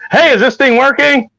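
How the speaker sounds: high, testing the mic; mic check voice. Retold or imitated. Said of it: "that's literally me before every show".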